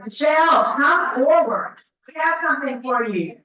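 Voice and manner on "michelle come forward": calling out. Real, not acted. Calling winner to the front.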